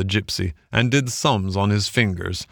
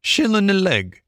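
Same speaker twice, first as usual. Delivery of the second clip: high, curt gypsy voice; gypsy making a curt offer, pitched high; brief gypsy; 10 semitones higher than usual. A narrator's reading. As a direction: clip it short like a haggler. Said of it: "he said briefly".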